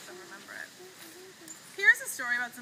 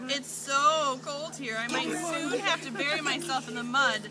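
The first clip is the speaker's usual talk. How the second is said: turtle voice; 7 dB louder, slower than usual. Acted. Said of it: "The turtle quickly replied".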